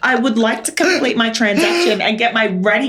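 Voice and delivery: a harried mum who has had enough; exasperated mum. Retold or imitated. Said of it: "And I'm like".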